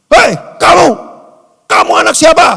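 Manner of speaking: put-on high, loud furious yell at a child; angry father shout. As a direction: bellow at the kid like an enraged dad. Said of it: "saking marahnya dia emosi". (teriakan ayah yang marah besar)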